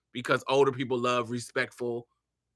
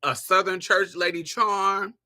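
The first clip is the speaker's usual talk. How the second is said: hint of church lady; 5 semitones higher than usual. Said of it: "I'm gonna come in with".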